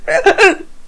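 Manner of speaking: squealing fake-meltdown laugh; high mock-hysterical laugh. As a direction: cackle high as if unhinged.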